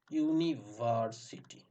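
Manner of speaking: "ইউনিভার্সিটি" very slowly, broken into syllables. Shown as a demonstration. Teacher showing how it is pronounced, slow and syllable by syllable. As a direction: spell out the sounds of "ইউনিভার্সিটি" unhurriedly. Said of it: "এরকম উচ্চারণ হচ্ছে".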